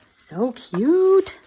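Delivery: high, loud, delighted; excited gush. Real, not acted. Crafter to viewers, a delighted high gush. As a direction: squeal it out over something adorable.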